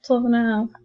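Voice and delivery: real laugh breaking out before the words. Real, not acted. Teacher labelling a number line on video, laughing. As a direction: start with a laugh, then get the number out. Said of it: "Sorry, I'm laughing".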